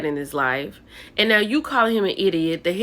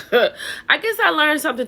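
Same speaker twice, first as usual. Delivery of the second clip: laughing; 8 semitones higher than usual. Real, not acted. Laughs at herself.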